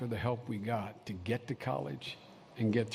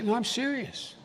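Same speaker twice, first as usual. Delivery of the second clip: normal talking voice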